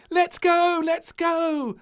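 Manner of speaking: high, loud and impatient; eager cry. Acted. Little Princess in the packed car, eager high cry. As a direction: bounce in the seat, urging them on. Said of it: "cried little Princess".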